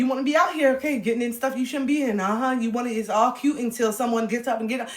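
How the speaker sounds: mildly stern mom, laughing; lightly voiced scolding mother. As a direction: warn her off like a mom. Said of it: "This is my mom telling me".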